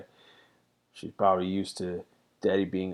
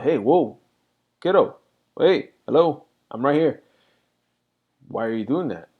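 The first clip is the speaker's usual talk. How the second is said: attention-getting calls easing into a question; gentler parenting; 5 semitones higher, 6 dB louder than usual. Retold or imitated. Dad checking in with his daughter, more passive. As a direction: start up high to catch the kid, then settle down. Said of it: "a lot more passive with my daughter".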